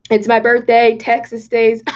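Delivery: a slip into a Texas country accent. Real, not acted. Celebrating her birthday to viewers, sudden Texas country accent. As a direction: let a Southern country twang slip out on Texas. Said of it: "I didn't even mean to say Texas in a country accent".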